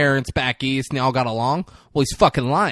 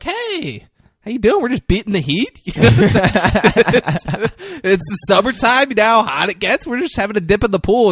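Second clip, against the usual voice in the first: high, louder mock girlfriend voice; chirpy girlfriend impression; 9 semitones higher, 5 dB louder than usual. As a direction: play the girlfriend breezily explaining, pitched up high. Girlfriend explains herself from the pool.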